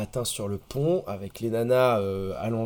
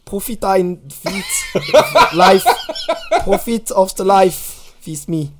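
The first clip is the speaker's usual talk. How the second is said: put-on high, halting German accent through laughs; 7 semitones higher, 7 dB louder, slower than usual. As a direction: struggle through English in a mock German accent. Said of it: "Avec un petit accent allemand".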